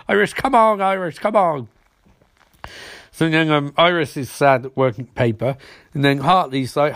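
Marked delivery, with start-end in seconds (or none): 0.1-1.7 mock pleading, voice raised in pitch; higher-pitched "oh come on" protest; exasperated pleading. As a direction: coax her in comic exasperation. Pleading with the character.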